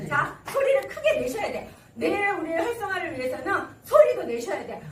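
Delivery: normal talking voice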